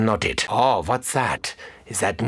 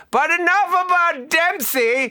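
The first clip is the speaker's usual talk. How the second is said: high, loud gleeful cry; high mocking exclamation; gleeful jab; 4 dB louder than usual. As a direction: crow it with delight.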